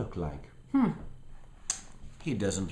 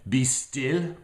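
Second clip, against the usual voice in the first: commanding Max; 5 semitones higher, 4 dB louder than usual. Acted. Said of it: "Max said".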